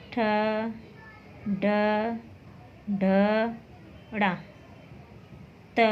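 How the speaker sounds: slow, clear recital of क ख ग घ with pauses; consonants recited. Shown as a demonstration. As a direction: say each consonant alone, slowly and clearly. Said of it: "एक बार और repeat कर लेते हैं".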